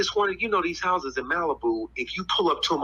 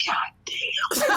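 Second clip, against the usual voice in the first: high mock-exasperated laugh; laughing exasperation. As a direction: let the retold curse burst into laughter. Retells own reaction, breaking into laughter.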